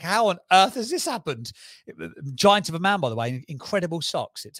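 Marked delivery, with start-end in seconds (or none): 0.0-1.5 loud, high-pitched disbelief; astonished. Retold or imitated. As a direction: exclaim it in retold amazement. Retelling his astonishment at the news.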